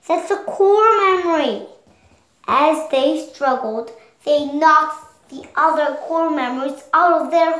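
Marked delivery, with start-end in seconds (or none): 0.1-1.7 protective insistence. Acted. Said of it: "sadness protected it".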